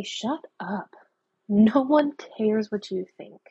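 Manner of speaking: a flat, firm brush-off to the inner critic; firm dismissal. Shown as a demonstration. Telling the mean inner voice to back off, firmly dismissive. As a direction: shut the mean voice down, word by word. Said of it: "just turn to it and say".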